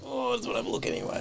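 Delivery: high, quick, airy put-on voice; sing-song little curious voice; mock curious voice. Mimicking the curious urge to look, high and quick.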